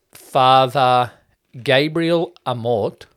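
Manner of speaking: slow, emphatic "Gabriel Amort"; careful name pronunciation. Shown as a demonstration. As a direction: say "Gabriel Amort" slowly and deliberately. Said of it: "That's how you say it".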